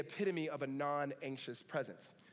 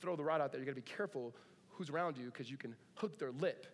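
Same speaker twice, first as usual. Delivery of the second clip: lower, unhurried mild warning; calm fatherly caution; 3 semitones lower than usual. Retold or imitated. Dad cautions his son on the fishing boat, calmly. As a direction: gently caution a young son, staying calm. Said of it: "his dad very calmly says".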